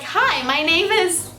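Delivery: high, slow intro, laughing through it; mimicking the TV daughter, cracking up; laughing mimic. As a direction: giggle through a stiff little intro. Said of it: "It's like".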